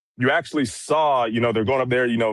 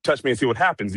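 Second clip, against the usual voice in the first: offensive threat; faster than usual. Retold or imitated. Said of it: "making it sound more, uh, on the offensive".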